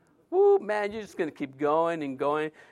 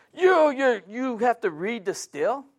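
stammering scold; 6 semitones higher, slower than usual. Retold or imitated. Angry clerk stammers at him.

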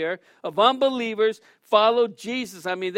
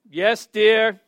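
meek yes dear; 8 dB louder than usual. Retold or imitated. Henpecked husband answers wife.

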